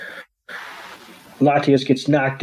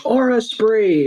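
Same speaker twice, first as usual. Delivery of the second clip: mock attack call; 8 semitones higher, slower than usual. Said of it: "Ash shouts".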